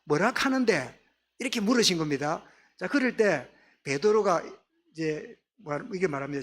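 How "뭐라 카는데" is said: put-on mild Gyeongsang-accented question; a touch of Gyeongsang intonation; Gyeongsang dialect. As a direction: ask it as Gyeongsang people would. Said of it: "이러면 경상도 사람 훨씬 알아듣기 쉽지요".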